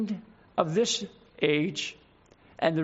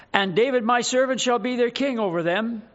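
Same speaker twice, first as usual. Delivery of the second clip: loud-ish, measured Bible reading; solemn, emphatic pulpit reading; scripture reading; 4 semitones higher, 4 dB louder than usual. Acted. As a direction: read scripture out with weight to the congregation. Reads scripture aloud to congregation.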